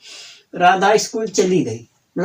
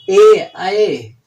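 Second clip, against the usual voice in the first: drawn-out ending; 5 dB louder, much slower than usual. Shown as a demonstration. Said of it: "जिस वाक्य के अंत में गया".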